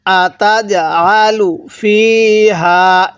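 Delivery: slow drawn-out tajweed chanting; slow recitation. Shown as a demonstration. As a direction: recite slowly for students to echo. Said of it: "আমার সাথে পড়ুন".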